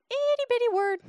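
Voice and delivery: high-pitched playful "itty-bitty"; tiny voice. Shown as a demonstration. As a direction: make the word sound tiny, way up high. Playful tiny voice for small word.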